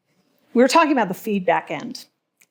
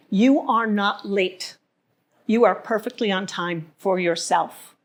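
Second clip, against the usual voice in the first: reassuring; slower than usual. Retold or imitated. Comforting line said during a hug.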